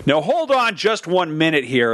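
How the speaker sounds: slow, hammed-up American objection; American caricature. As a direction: do a pushy American from a comedy sketch. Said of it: "that bit about Americans".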